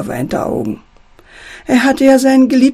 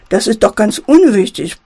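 usual speaking voice

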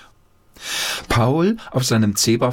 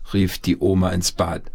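ordinary delivery, nothing marked

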